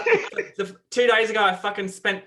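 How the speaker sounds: lightly put-on Australian accent, laughing in places; shitty Australian accent. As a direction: play a rough Aussie bloke in Australian accent. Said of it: "Do your Australian accent".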